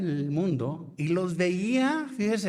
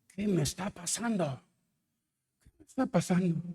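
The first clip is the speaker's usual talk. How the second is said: retold frightened plea; 5 semitones higher than usual. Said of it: "me asusté".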